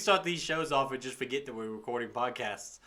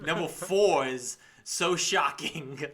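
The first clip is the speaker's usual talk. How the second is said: clickbait video narrator; slower than usual. Pretend. Mock clickbait list headline.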